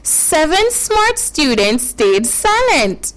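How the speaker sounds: slow, measured tongue twister; careful demonstration. Shown as a demonstration. Teacher models a tongue twister for children, slow and careful. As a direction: say it slowly, word by word. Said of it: "listen carefully, listen carefully".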